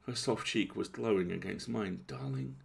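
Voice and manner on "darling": low murmur. A narrator's reading. Lover murmuring to her friend, low darling. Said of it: "she murmured".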